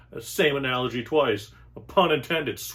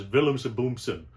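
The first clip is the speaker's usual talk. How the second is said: mock German. Comic explaining German, mock German gibberish. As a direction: fake German gibberish with a hard German accent. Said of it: "You say it in German".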